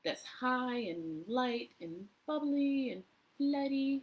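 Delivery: a hint of a kindergarten teacher's voice; child-friendly voice. Shown as a demonstration. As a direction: talk to children, lightly and playfully. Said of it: "with children".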